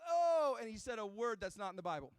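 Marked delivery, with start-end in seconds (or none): 0.1-0.6 high, loud cry of alarm; drawn-out mock holler; imitated yell. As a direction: yell it out like a buddy mid-drop. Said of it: "he just yells out".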